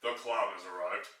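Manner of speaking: low, quiet announcer clown voice; silly clown. Pretend. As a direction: announce the clown's grand entrance. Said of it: "And now".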